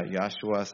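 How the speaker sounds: Yahshua in two parts, Yah-shua; pronounced Yahshua. Shown as a demonstration. Listing name variants for the congregation, pronounced Yahshua. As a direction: say Yahshua with a Y, no middle "hu". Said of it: "because some people say".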